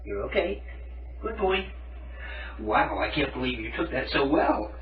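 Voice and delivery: soft, soothing words to a nervous pet; comforting tone. Real, not acted. Owner soothing the cat in the bath, soft and comforting. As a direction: hush him gently so he stays calm. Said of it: "talk to them in, like, a comforting tone".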